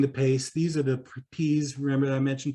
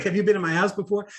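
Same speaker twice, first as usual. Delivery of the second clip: higher, quick retold suspicious question; 6 semitones higher, faster than usual. Customer questioning her repairman, retold with suspicion. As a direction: question them as if mildly suspicious. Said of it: "same sort of suspicious tone".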